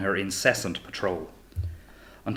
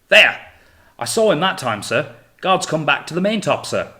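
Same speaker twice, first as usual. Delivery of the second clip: high, loud eager cry of discovery; excited cry; 7 semitones higher, 8 dB louder than usual. Acted. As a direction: shout it out, thrilled to see him. Finch excitedly spotting the ghost.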